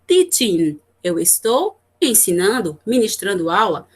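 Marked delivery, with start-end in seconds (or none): 0.1-0.8 slow example read. Shown as a demonstration. Teacher reads English example.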